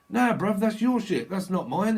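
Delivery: mock-exasperated brush-off; firm refusal. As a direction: hand the blame straight back, emphatically. Pushing back at a complainer.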